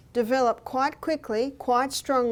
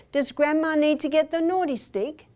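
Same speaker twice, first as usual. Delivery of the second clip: mock stern warning; 4 semitones higher than usual. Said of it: "I said".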